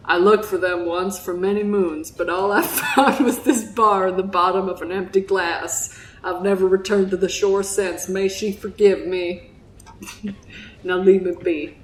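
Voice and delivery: lightly voiced Southern fisherman; grave tale told in a Southern accent. Fisherman recounts losing his ship, in a Southern accent. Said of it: "that's my Southern accent".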